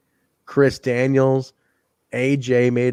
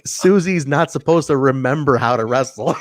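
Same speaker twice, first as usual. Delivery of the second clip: laughing retort. Retold or imitated. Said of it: "I was like".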